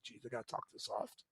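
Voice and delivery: whispered, barely there; exasperated whisper making fun of soft talkers; mock soft talk. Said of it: "When I find people talk soft".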